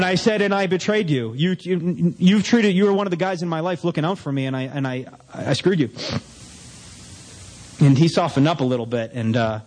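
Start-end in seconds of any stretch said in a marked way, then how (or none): 0.4-5.9 mock-tearful, stammering apology; imitated crying confession. Confessing to the boss while crying, lightly mimicked tearfulness. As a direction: stumble through it as if in tears. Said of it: "And I'm crying like a baby".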